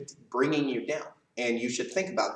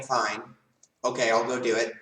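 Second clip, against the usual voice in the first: willing agreement. Shown as a demonstration. Child asked by parents to clean the room, willing agreement. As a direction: agree readily, without fuss. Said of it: "in your head, you're saying".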